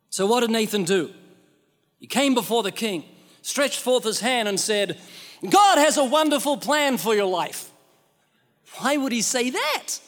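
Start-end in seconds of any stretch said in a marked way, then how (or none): 5.5-7.7 bright salesy evangelist pitch; mock cheerful preacher. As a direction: say it like a cheery modern gospel pitch. Nathan voiced mockingly, ironic modern line.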